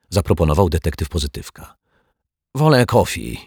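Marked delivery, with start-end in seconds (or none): 2.5-3.4 higher-pitched foreign guest voice; raised character mutter; muttering Turk. A narrator's reading. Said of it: "mruknął Turek".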